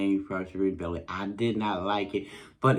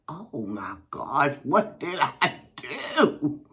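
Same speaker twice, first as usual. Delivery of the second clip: put-on worried child; 8 semitones higher, 4 dB louder than usual. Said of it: "I'm like".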